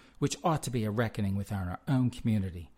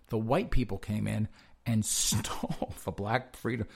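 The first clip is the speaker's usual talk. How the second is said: put-on Malcolm X style voice, breaking into a laugh; mock Malcolm X, cracking up midway. Doing the requested voice for a co-host, mock Malcolm X. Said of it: "he wants the accent, the voice".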